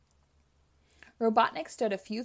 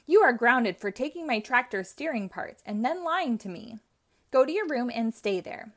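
put-on loud, firm scolding of a young man; stern scolding; 2 semitones higher, 6 dB louder than usual. Uncle grounding his nephew for stealing parts, angry scolding. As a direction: lay down the punishment, raising the voice. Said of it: "Now he was getting angry".

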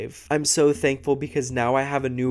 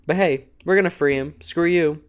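louder, fast sneering taunt; sarcastic mock jeer; 4 semitones higher, 4 dB louder than usual. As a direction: taunt like the system mocking them. Mocking the justice system.

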